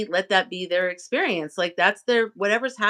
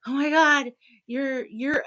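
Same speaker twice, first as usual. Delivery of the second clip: gushing fan; 7 semitones higher, slower than usual. Retold or imitated. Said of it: "people get overly, like, into me".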